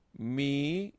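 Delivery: "mish" drawn out high as one rising syllable. Shown as a demonstration. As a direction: stretch "mish" and leave it hanging. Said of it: "Tres sílabas".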